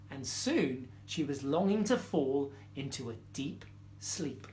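measured storytelling with pauses; story reading. A narrator's reading. Storyteller reading a fable to children, measured story reading. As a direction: read it gently to young children.

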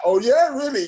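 high, loud surprised yelp; hammed-up amazed "really?"; mock surprise. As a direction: play up the surprise. His own surprised reply retold.

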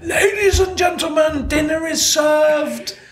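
high, loud British call to dinner; loud British announcement. Retold or imitated. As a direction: announce dinner to the room, loud and British, slowing on the last words. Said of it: "in my very loud British voice".

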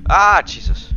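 sudden high shriek of fright; startled. Real, not acted. Startled by ghost in game.

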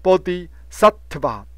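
Bodhisattva as bo-di, sat-te-va; modelled pronunciation. Shown as a demonstration. Teacher giving learners the reading, "Bodhisattva" carefully syllable by syllable. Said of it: "所以把它念成".

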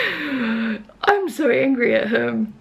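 slow, laughing, fake-cross complaint; half-laughing, pretend to be mad; laughing mock anger. Real, not acted. Owner laughing about her naughty dog, in mock anger.

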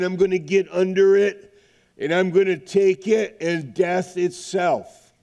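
rising, rolling preacher cadence; fervent preaching. Real, not acted. Preacher proclaiming Christ's victory to his church, fervent preaching. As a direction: preach it out to the congregation with conviction.

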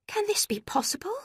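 high, breathless question; shocked disbelief. A narrator's reading. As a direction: whisper it in stunned disbelief. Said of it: "cried Marianne".

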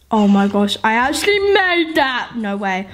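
disbelieving relief after a close call; amazed, dropping low on the last words; surprised. Real, not acted. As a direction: marvel that you got away with it. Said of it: "you're wondering why I sound so surprised".

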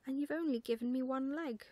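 lightly voiced put-out owlet; indignant owlet. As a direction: complain about the portrait. Owlet indignant at his portrait.

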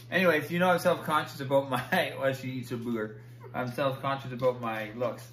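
speaking without dentures, laughing; gummy, lisping toothless talk. Real, not acted. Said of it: "vlogging for you guys without my teeth in".

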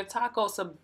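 stumbling over the words; real stammered false starts, then recover; tongue-tied. Real, not acted. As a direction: trip on the word and restart it. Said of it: "I'm getting tongue-tied".

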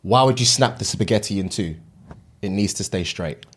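mock Italian accent. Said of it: "We'll go Italian".

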